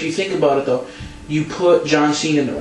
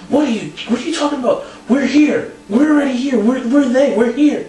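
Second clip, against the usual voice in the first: high, insistent mock exasperation; Ric Flair; 9 semitones higher than usual. Co-host retells wrestler answering his partner, mock exasperation. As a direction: imitate a worked-up wrestler, pitched way up. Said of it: "And Flair's like".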